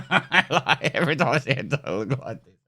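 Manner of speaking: laughing through the words; can't keep straight face. Real, not acted. Speaker reacting to the dog's ancestry, unable to keep a straight face. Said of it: "I can't do a straight face".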